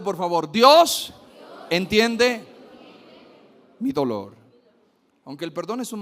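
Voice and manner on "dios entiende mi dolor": shouted declaration of faith; louder. Shown as a demonstration. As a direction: proclaim it loudly to the congregation. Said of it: "Dígalo más fuerte".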